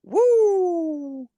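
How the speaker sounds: high singsong boast ending in a whoop; playful gloating. Acted. Cohost teasing cold Wisconsin friend, gloating. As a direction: crow about it in a high voice. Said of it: "I can be like".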